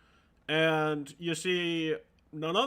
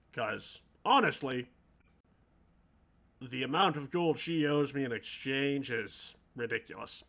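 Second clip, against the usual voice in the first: lightly gravelly shopkeeper with a southern-sounding twang; gravelly-voiced game character. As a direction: put some gravel in the voice. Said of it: "trying to have a gravelly voice".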